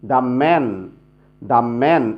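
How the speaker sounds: "the man" with "the" said as "da", never "dee". Shown as a demonstration. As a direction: say a short "da" before "man" in "the man". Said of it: "দি হবে না কিন্তু". ("the man"-এ the-এর উচ্চারণ "দা")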